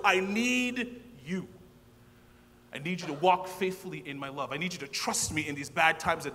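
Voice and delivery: preaching God's call with force. Acted. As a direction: speak as God, intense and pleading. Voices God to congregation.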